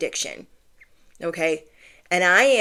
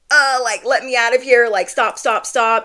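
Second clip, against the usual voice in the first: raised, urgent pleading; retold panic; 4 semitones higher, 4 dB louder than usual. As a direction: act out begging them to stop. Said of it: "panicking, I'm screaming, I'm crying".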